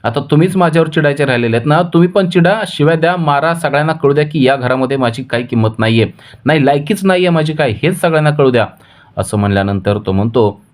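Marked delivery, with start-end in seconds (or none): 0.0-8.7 higher, fast, half-crying complaint; wife breaking into tears while accusing her husband, much higher; tearful outburst. Acted. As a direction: wail it out as a wronged wife, without real sobs. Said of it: "ती रडायला लागते आणि म्हणते".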